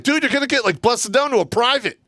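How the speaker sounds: high-pitched incredulous warning; alarmed scolding. Retold or imitated. Sergeant warning enlisted men about demotion, alarmed scolding. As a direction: scold them in a high, urgent voice.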